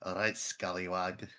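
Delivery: put-on slow, heavy Scottish accent. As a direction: play it drunk on whiskey in heavy Scottish. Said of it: "one fucking accent, and it somehow is this one".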